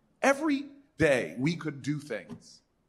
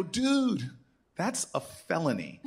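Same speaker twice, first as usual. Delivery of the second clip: deadpan reply; 3 semitones higher, slower than usual. Retold or imitated. Senator answering the eager guy, dry and deadpan. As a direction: cut him off with a dry deadpan. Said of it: "I look at him and I go".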